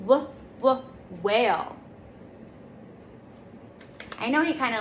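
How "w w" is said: "W, w," rounded and pushed out, louder; W sound modeling. Shown as a demonstration. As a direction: stretch "W, w," so kids hear it. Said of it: "Now repeat after me".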